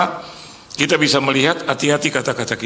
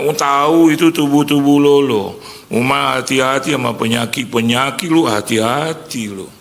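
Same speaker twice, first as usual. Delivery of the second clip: higher, louder engkoh voice nagging a friend; Chinese-Indonesian uncle; 3 semitones higher, 5 dB louder than usual. Retold or imitated. Friend's uncle warns him to get checkups, in a Chinese-Indonesian accent. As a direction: lecture him like a fussy old uncle. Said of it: "Si engkau bilang".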